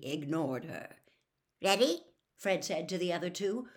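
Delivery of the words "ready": higher, louder eager question; quivering excitement. A narrator's reading. Fred to the other two, quivering with excitement. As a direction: ask it bursting to start. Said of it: "quivering with excitement".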